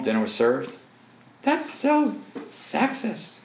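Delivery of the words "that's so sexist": high, drawn-out whiny protest voice; squeaky mock outrage; mock objector. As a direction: parody a scandalised critic, stretched out slowly. Mocking an imagined objector.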